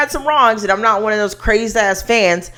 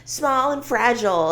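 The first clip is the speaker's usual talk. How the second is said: soft, higher, dainty little voice; high-pitched damsel voice; 4 semitones higher, 8 dB quieter than usual. Retold or imitated. Imitating a singer as Glinda in a soft high damsel voice. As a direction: play the fragile damsel, softly. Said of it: "speaking in this high-pitched voice".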